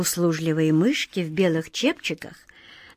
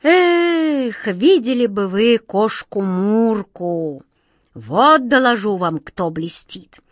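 sighing, slow and wistful; slower than usual. Acted. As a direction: sigh with longing for Murka. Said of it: "с печальным вздохом".

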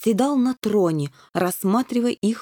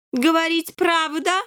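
stern king; 8 semitones higher than usual. A narrator's reading. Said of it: "строго обратился".

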